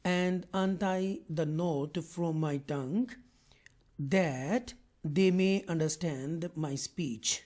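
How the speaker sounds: slow, deliberate reading in separate phrases; measured scripture reading. Acted. Teacher reading Moses's prayer in English, slow measured reading. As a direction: read the translation out slowly, pausing between phrases.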